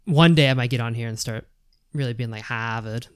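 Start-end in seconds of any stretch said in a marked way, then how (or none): 2.4-3.1 Boston accent. Shown as a demonstration. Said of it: "I can try".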